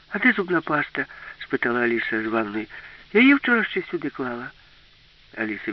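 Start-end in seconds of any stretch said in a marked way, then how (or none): 0.1-1.1 much higher-pitched character question; questioning Alice. A narrator's reading. Alice asking from the bathroom, high questioning voice. 3.1-4.5 high-pitched, louder character line; lightly voiced protest, pitch well up; puzzled Alice. A narrator's reading. Alice missing her toothpaste, high puzzled voice.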